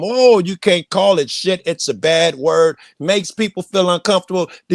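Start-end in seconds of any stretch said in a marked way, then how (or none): 0.0-2.8 mock prissy scolding. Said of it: "go over there and tell 'em".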